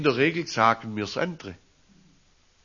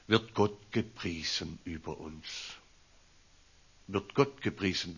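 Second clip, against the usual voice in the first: hushed question; 6 semitones lower, 9 dB quieter than usual. Real, not acted.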